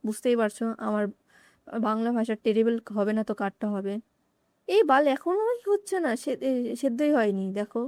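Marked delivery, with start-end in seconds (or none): 4.7-7.5 annoyed. Real, not acted. Noodles not cooked, annoyed.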